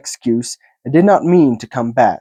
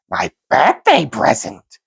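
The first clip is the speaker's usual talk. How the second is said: whispered; 5 semitones higher than usual. A narrator's reading. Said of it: "he whispered to himself".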